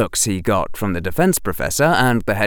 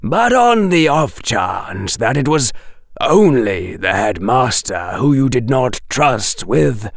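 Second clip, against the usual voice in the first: professor praising his student darkly; menacing Quirrell. Acted. Quirrell voiced in audiobook.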